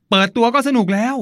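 light up remembering the show; excited. Real, not acted. Host recalling childhood wrestling entrances, excited.

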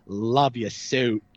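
low, drawn-out mock parting line; movie villain quote. Prankster quoting film to coworkers, slow low mimicry. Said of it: "I'll be like".

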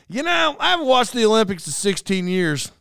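mildly exaggerated fan talk; mock eager fan. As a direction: play someone itching for some skating, lightly hammed up. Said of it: "that's what you don't say".

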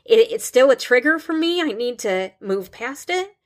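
holding back tears while talking; real emotion breaking through; getting emotional. Real, not acted. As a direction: voice tightening with real emotion, pitch pushed up. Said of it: "I'm getting emotional".

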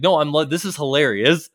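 high, loud, forced cheer; insistent sock puppet. Retold or imitated. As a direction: push it like a puppet pretending he's fine. Puppet denying he is mad.

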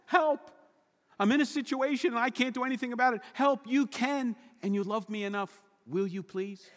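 high, urgent cry to God, softening at the end; desperate plea for help. Pretend. A praying person crying out to God, desperate. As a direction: beg God for help, then plead gently. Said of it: "here's what that prayer means".

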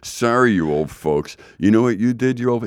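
lightly sarcastic paraphrase of an apology; sarcastic mock apology. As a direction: apologize with a touch of mockery. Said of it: "a little bit of sarcasm in there".

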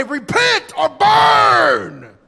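voicing a wrathful God to the church; angry shout. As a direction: thunder it like a wrathful preacher. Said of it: "You'll never hear the Lord say".

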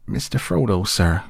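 high-pitched, pleading call for help; frightened cry. Acted. Scared gardener appealing to Mister Frodo, crying out. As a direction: cry out to the master in alarm. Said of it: "cried Sam, quaking".

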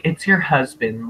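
offhand imitation in an everyday voice; nonchalant. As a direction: toss it off as if it hardly matters. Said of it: "really nonchalantly and really late".

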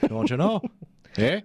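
mock Canadian accent. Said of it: "It almost sounds like Canadian".

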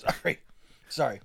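hoarse apology after choking on saliva; clearing a throat still choking on saliva. Real, not acted. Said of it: "I just was choking on my saliva".

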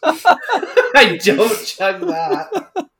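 laughing. Real, not acted. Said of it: "Oh, gross".

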